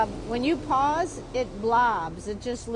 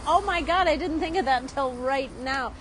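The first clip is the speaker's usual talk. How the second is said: it just hit you; sudden realization; 3 semitones higher than usual. Real, not acted.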